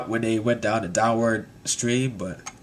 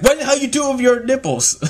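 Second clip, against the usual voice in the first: high-pitched comic disbelief; incredulous outburst; 11 semitones higher than usual. Retold or imitated. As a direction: squawk it in mock shock. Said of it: "It's like".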